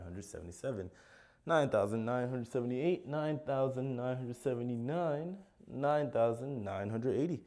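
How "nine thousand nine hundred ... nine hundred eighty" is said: excited shout. Real, not acted. Last stretch of a long count.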